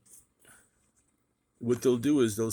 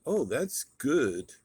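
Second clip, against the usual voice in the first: dismissive; 3 semitones higher, much slower than usual. Retold or imitated. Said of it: "They'll just say".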